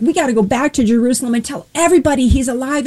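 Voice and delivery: quick, eager rush of words; excited rush. Retold or imitated. Disciples rushing to tell everyone he's alive, in a quick eager rush. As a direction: hurry the news out breathlessly. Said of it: "in their excitement".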